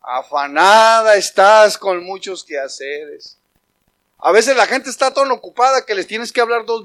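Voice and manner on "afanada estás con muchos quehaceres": drawn-out name, then slow measured reproof; God admonishing. Acted. God speaks to busy Martha, slow drawn-out admonishing. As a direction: stretch the words out, slowing down markedly. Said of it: "¿Qué le dijo?".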